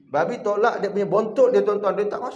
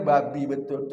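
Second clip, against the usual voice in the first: fed-up curse; 6 semitones lower than usual. Shown as a demonstration. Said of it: "Mesti dia kata".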